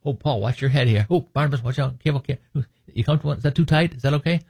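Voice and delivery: lightly voiced fussy, over-considerate jailer; mock solicitous jailer. Mock considerate jailer in retold scene.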